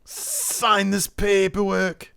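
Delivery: slow, high hushed command; breathy drawn-out sales push; stage whisper. Pretend. Realtor bit continues.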